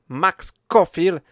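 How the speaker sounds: Max Caulfield in a slowed English accent. Shown as a demonstration. Podcast host names the heroine in an English accent. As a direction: say the name the English way, slowly. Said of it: "Désolé pour mon accent, euh, anglais".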